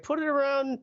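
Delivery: lightly voiced kids egging each other on; kids' voice. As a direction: play the excited nieces and nephews. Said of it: "they're like".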